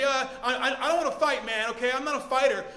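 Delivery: mildly nervous, stammering retreat; scared backing down. Acted. Bike owner declining the thief's fight, mildly scared. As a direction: back out of it, a touch scared. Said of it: "from angry to confused to scared".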